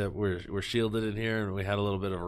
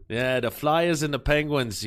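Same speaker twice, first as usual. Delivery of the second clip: Boston accent; 4 semitones higher than usual. Shown as a demonstration. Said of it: "New Jersey meets Boston".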